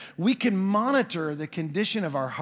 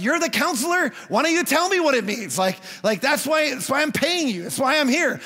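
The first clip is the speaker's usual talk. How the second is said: exasperated protest; 5 semitones higher, 3 dB louder than usual. Retold or imitated. Frustrated client to counselor.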